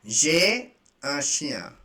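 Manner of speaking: J'ai un chien spoken slowly and evenly; slow it down for learners; slow repeat. Shown as a demonstration. Teacher modelling the phrase slowly for students. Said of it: "I have a dog".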